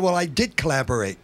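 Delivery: P=A; firm. Retold or imitated. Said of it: "very firmly".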